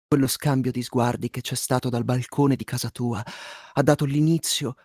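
sultry narrator. Acted. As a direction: read it like a seductive love letter. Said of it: "Con voce sensuale".

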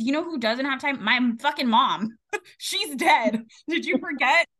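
pissed off. Retold or imitated.

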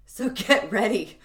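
slow, stiff spoken word reading; robotic poem. Shown as a demonstration. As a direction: read it like a deadpan robot poet. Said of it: "I read that like a, a robotic poem".

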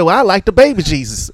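high, loud hammed-up grandfather; high mock old man. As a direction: squeak it out like a cranky grandpa. Character voiced in prayer scene.

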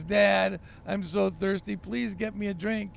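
put-on boy calls to his dad on the stairs, pleading; whiny little boy calling. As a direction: call after Dad like a thirsty kid.

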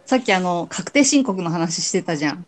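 talking while eating; mouth full. Real, not acted. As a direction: speak through a mouthful of food. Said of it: "食べながら喋る。".

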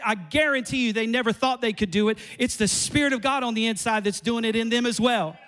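loud, driving sermon delivery; preaching at full force. Acted. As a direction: hammer each line to the congregation. Preacher drives home point.

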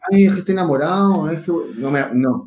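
mock whiny lover. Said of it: "Muy blando".

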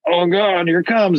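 high mock panic before the prick; mock dread. Patient bracing for the finger prick, mock fear. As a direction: brace for the needle, hammed-up. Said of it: "and you're like".

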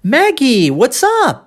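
high swooping "Maggie", "what's up" with T-S sounded; neat full pronunciation. Shown as a demonstration. Teacher modelling the tidy form to Maggie, high lilting intonation. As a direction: call "Maggie, what's up" in a high lilt, fully articulated.

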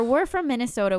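mild Minnesota accent. Shown as a demonstration. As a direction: lean into the Minnesota vowels. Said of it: "We have an accent too".

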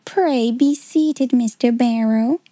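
slow, stiff and formal invitation; stiff dignity. Acted. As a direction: offer the chair with cold dignity. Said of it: "with stiff dignity".

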